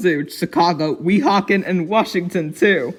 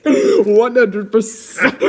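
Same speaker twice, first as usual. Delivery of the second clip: slow refrain stretched through laughter; laughing, drawn out; 4 semitones higher, much slower than usual. Real, not acted. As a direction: drag it out while giggling. Reader laughs reading refrain.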